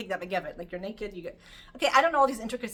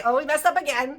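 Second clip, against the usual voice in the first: a mild sighing people voice; rueful "oh, we messed up again"; 4 semitones higher, 8 dB louder than usual. Retold or imitated. People shrugging off their mistake, mildly rueful. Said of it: "Hashem's sending us to say".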